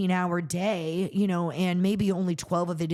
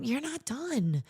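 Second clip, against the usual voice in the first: mildly stern, urging retelling of God's voice; firm, slightly raised-pitch push to get up; firm pep talk; 3 semitones higher than usual. Retold or imitated. God urging a discouraged woman not to quit, firm pep talk. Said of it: "that's kinda how I felt he was talking".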